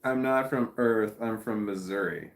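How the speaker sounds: lightly voiced Star-Lord line; a light nod to Chris Pratt's delivery; Star-Lord quote. Quoting Star-Lord to chat, lightly voiced. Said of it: "that's what Star-Lord said".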